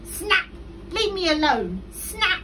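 loud, high snappish cry; angry snapping. A narrator's reading. Crocodile driving animals from the water, loud snapping. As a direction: snap at them loudly.

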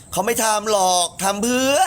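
high, rising protest; high-pitched voice. Real, not acted. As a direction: voice climbing high at the end. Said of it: "ทำไมเสียงสูงอะ".

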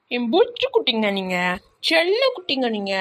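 sweet pet-name cooing; wife fondly babying her husband; cooing baby talk. Acted. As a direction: coo at him like a baby.

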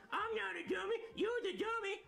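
high cheeky puppet voice; dummy voice. Acted. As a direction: sass back like a puppet. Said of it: "my ventriloquist dummy".

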